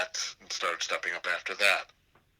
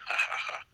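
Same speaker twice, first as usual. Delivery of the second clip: breathy unvoiced mock laugh; imitated chuckle. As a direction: huff out a nudging laugh.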